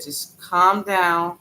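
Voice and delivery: slow, steady reassurance; calming myself. Retold or imitated. Reassuring herself while worrying about her sick relative, slowly. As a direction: ease yourself down, word by word. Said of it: "I'm just talking to myself".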